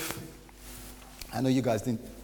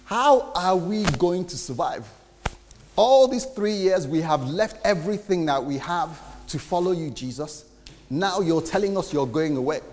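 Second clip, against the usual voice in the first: panicked disciples; 3 semitones higher than usual. Retold or imitated. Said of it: "they were saying".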